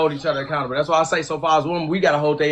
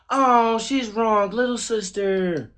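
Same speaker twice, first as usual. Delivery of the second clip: mock deep singer voice; 2 semitones higher, much slower than usual. Mocking women who scold each other, slow deep singer voice. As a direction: ham up a deep soul croon. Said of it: "you bitches sound like a singer".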